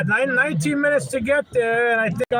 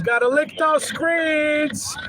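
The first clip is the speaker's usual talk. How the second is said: hammy drawn-out yell; slow drawn-out shout; 3 semitones higher, much slower than usual. Pretend. Repeats line drawn out loud.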